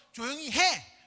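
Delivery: mildly cross mock command; retold angry scolding. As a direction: scold lightly, as an annoyed adult would. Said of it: "화를 내면서".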